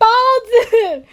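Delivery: loud, high excited cry; excited shout. Real, not acted. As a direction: shout it out, thrilled. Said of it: "我听到重点了". (兴奋地大喊)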